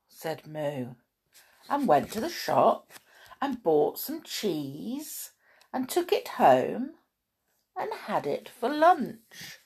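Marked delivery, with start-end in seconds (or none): 1.7-9.6 measured picture-book reading; children's story narration. A narrator's reading. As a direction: read it to small children, pausing between phrases.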